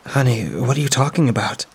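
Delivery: a lightly voiced older woman, gently worried; concerned mother's friend. Friend finds her on the steps, lightly voiced concern.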